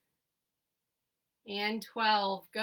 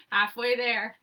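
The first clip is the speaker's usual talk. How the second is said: laughing; 6 dB louder than usual. Real, not acted. Laughs at her dog mid-workout.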